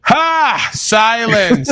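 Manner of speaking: sudden high villain shout; booming echoing villain monologue. Acted. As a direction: bark it like a tyrant king. Tyrant king silencing a slave.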